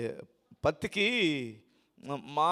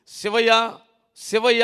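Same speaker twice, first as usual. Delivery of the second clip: calling out; 4 semitones higher, 8 dB louder, slower than usual. Retold or imitated. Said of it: "అని పిలుస్తున్నాడు ప్రభువు".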